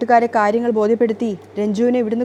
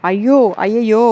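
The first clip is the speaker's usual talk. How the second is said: louder hammed-up fake dismay; mock alarm; 4 dB louder than usual. Niece mocking her crying aunt, hammed-up alarm. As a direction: tease her with exaggerated shock.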